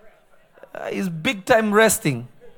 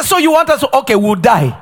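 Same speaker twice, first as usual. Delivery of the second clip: mock resignation; 5 semitones higher, 6 dB louder than usual. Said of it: "they will say".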